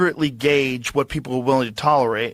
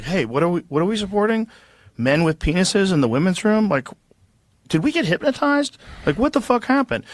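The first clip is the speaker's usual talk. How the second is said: incredulous outburst; 6 semitones higher than usual. Retold or imitated. Voicing confused public waking up.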